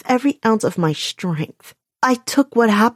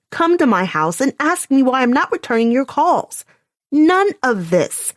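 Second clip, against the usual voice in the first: dripping sarcasm; 5 semitones higher, 4 dB louder than usual. A narrator's reading. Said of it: "let the sarcasm drip from every syllable".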